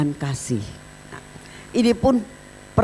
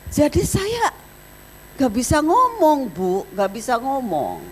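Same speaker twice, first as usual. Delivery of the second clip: choked-up protester; 8 semitones higher than usual. Retold or imitated. Protester overwhelmed, speechless.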